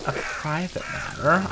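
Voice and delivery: drawn-out, puzzled "A private matter?"; slow puzzled reading. Pretend. Reading the line slowly, puzzled at first. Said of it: "repeats line, puzzled".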